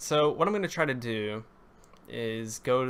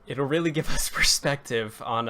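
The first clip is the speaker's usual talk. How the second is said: real voice crack mid-sentence, louder; 3 semitones higher, 5 dB louder than usual. Real, not acted. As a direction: let the voice break, with a little laugh. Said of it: "okay, I keep voice cracking".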